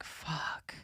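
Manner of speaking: whispered curse under the breath; hushed, voiceless expletive; quiet dismay. Retold or imitated. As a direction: swear almost silently, as a private reaction. Muttered dismay retold from the date.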